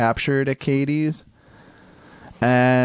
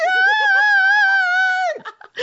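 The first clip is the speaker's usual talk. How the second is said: high laughing shriek. Real, not acted. After singing the high note.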